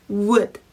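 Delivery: "would" starting from lips rounded as for "will"; a clear w-glide into "would", unlike Korean 우. Shown as a demonstration. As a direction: purse the lips for w, then say "would". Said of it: "입술을 will 할 때처럼".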